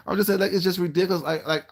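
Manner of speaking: laughing. Real, not acted. Laughing off her rant.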